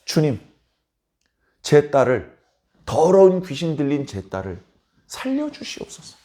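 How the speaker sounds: a touch of choked-up begging; mother begging on her knees, holding back sobs; tearful plea. Acted. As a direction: plead for your daughter, almost in tears. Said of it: "거의 울먹울먹하면서 얘기를 합니다".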